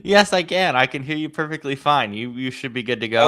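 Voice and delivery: glitchy bitcrushed audio; like a breaking-up digital call; robotic voice. Real, not acted. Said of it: "now you sound all robotic to me".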